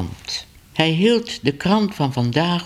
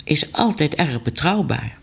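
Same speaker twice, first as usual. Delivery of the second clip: higher-voiced, anxious newspaperman; nervous editor; 5 semitones higher than usual. Editor nervously defending his reporter to Ellemeet. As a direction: defend the reporter, a bit timid.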